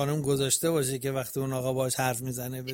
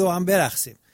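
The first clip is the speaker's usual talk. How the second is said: louder quote; 4 semitones higher, 5 dB louder than usual. Retold or imitated. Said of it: "شما میگه".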